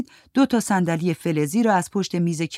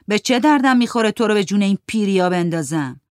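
Farid retorting; 3 semitones higher, 5 dB louder than usual. Acted. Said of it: "فرید ... گفت".

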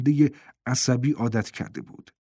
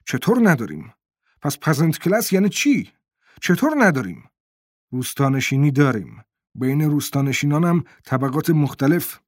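loud, raised-pitch outburst, climbing on the repeat; shouting; 2 semitones higher, 4 dB louder than usual. Acted. Adel losing his temper at Boland, shouting louder. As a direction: blow up and shout the objection. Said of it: "فریاد زد".

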